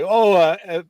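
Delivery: ordinary delivery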